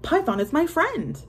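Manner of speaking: high, loud iguana voice; lazy hissy iguana. A narrator's reading. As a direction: cry it out as the iguana. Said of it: "cried the iguana".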